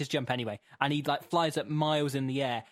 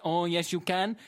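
lightly raised mock French presenter; French accent; 2 semitones higher than usual. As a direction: grant it in a comic French accent. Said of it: "but the potato goes".

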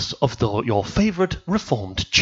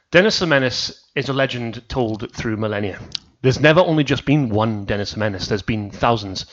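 mock legend narration. Telling friends the legend of Dennis, solemn. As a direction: tell it like an ancient legend.

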